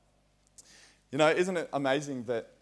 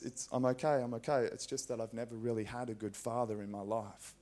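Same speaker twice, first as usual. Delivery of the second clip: mild tearful hush; 3 semitones lower, 6 dB quieter than usual. Retold or imitated. Crying girl's reply retold.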